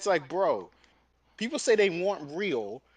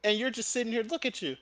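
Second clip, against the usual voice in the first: raised-pitch retold scolding; Gordon Ramsay; 5 semitones higher than usual. Chef scolding idle staff while customers wait, mildly mock mad. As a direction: imitate a chef getting worked up. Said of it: "he starts getting mad".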